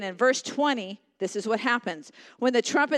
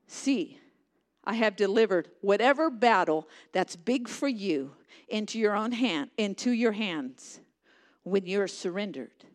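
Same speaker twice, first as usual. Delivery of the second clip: gentle; 2 semitones lower than usual. Acted. God voiced softly to listeners.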